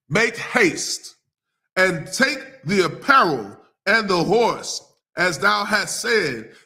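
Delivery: slow, measured King James reading; solemn Bible reading voice; scripture reading. Acted. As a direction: read the verses with weight. Reads scripture passage aloud.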